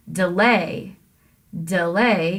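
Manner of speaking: "Delay" with brief duh, stressed LAY. Shown as a demonstration. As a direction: lean on the second syllable of "Delay". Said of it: "you have to stress the lay".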